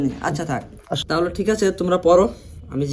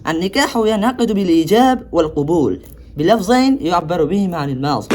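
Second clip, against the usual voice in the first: reciting Arabic text; slower than usual. Acted. Reads Arabic text of Hedaya.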